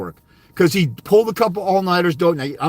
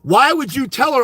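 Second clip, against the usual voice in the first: angry rant; 4 semitones higher, slower than usual. Real, not acted. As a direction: spit out the insults slowly. Shouting insults at dads.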